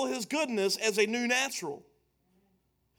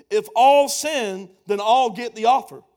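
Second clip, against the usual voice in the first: preaching at full force; 9 dB louder than usual. Acted. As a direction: drive it home to the congregation. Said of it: "preaching emphasis".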